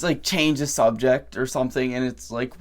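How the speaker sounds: usual speaking voice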